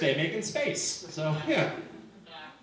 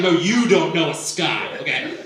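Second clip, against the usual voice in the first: emphatic insistence; 6 dB louder than usual. Retold or imitated. Insisting to wife in quoted argument.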